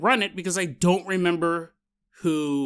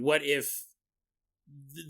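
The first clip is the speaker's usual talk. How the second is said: normal talking voice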